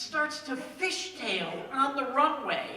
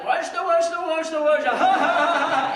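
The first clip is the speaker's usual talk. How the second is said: mocking passengers laughing; 4 semitones higher, 8 dB louder than usual. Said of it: "everybody in the plane starts laughing".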